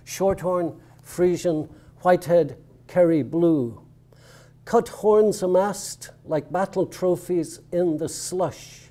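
measured poem recital with deliberate pauses; poetry reading. Real, not acted. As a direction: read it line by line, letting each phrase stand. Resumes the poem after an aside.

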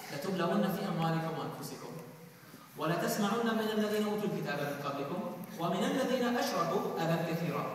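fast, flowing chanted Arabic recitation; Quran recitation. Acted. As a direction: recite the verse in one melodic breath.

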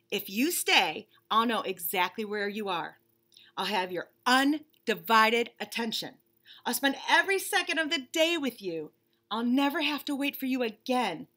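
lightly voiced bunny, impatient and fed up; a put-upon bunny stuck waiting; bored bunny. Bunny complaining to the reader about waiting, mildly whiny.

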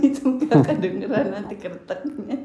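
talking through laughter; laughing. Real, not acted. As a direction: laugh while you explain. Laughing while explaining. (bicara sambil tertawa)

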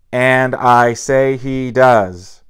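put-on slow, loud drunken roar. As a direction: bellow it, slow and heavy. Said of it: "roared the man".

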